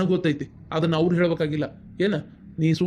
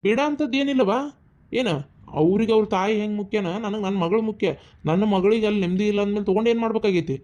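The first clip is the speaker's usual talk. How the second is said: raised, higher, heated voice; heated insistence; 3 semitones higher than usual. Acted. Brother insists to his sister that her peace matters, heated and raised. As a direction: overrule her pleading, hotly.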